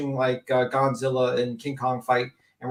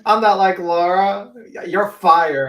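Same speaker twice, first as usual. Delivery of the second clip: slow, loud, higher mock boss line; mocking loud quote; 6 semitones higher, 9 dB louder, slower than usual. Retelling a Donald Trump line to friends, slow mocking call. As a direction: drag out the mock firing, loud and high. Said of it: "Oh, snap".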